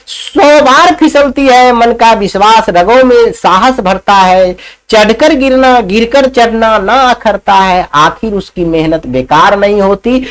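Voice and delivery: recited poem, measured pace; poem recital. Acted. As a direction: deliver it like a recitation to children.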